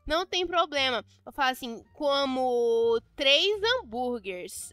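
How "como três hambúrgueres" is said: slow emphasis. Real, not acted. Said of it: "eu tô falando com ele".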